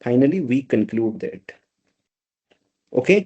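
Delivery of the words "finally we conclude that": slow dictation. Shown as a demonstration. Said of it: "I should write that".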